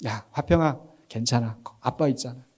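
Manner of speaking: soft, gentle dad voice; fatherly reassurance. Retold or imitated. Father holding his frightened little son, gentle reassurance. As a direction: comfort a scared child, lightly acted. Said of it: "그때 제가 뭐라고 해요".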